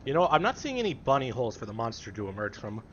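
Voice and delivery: muffled behind a gas mask; speaking through a gas mask filter. Real, not acted. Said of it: "put the gas mask on".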